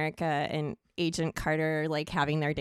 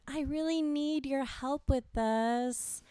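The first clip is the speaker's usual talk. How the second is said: put-on pleading girl voice; 3 semitones higher than usual. Shown as a demonstration. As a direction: beg sweetly for help. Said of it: "men really dig chicks saying".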